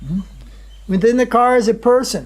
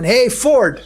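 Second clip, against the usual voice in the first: retold road shout; 4 semitones higher than usual. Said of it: "one man will shout to the other one".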